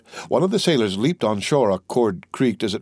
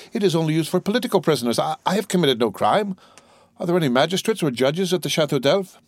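higher-pitched, agitated prisoner's protest; alarmed prisoner; 5 semitones higher than usual. Acted. Prisoner argues he committed no crime, agitated protest. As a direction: argue quickly at first, pitch held up.

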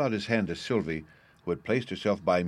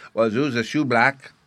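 put-on child voice; 4 semitones higher, 7 dB louder than usual. A narrator's reading. Bruno child voice.

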